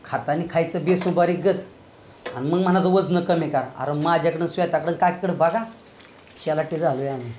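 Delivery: low, soft complaint; muttered grumbling. Acted. Relative complains about overeating and dieting, low soft grumble. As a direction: grumble under your breath.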